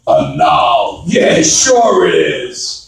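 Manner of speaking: low, slow "Anal" in scornful disbelief; sarcastic mockery. Comedian mocking his brother-in-law's name, sarcastic. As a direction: drag it out sarcastically.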